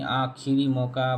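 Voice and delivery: slow आखिरी मौका with clear खि; careful slow model of आखिरी; correct form, repeated. Shown as a demonstration. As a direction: draw out आखिरी, short i after ख. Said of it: "आखिरी नहीं".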